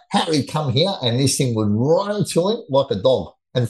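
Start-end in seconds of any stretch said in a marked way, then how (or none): 0.1-0.9 light mock holler to a pet goat; retold call, pitched up; mock yell. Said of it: "and he'd yell out".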